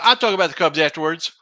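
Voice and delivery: whispered aside; whispering. Real, not acted. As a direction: breathe it out unvoiced. Unvoiced aside.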